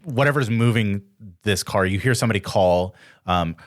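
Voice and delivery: ordinary talk, nothing marked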